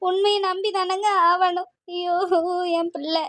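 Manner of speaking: slow, sobbing grief; crying. Acted. Wife mourning her son to her husband, sobbing. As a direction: wail for your child in broken sobs. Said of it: "இப்படி அழுது அழுது".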